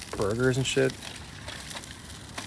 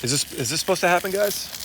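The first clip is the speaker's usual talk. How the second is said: alarmed question; 8 semitones higher than usual. Real, not acted. Grill catches fire on live.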